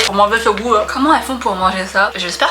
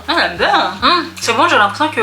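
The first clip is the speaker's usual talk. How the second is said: laughing; 4 semitones higher than usual. Real, not acted. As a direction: laugh with delight. Enjoying the banana snack.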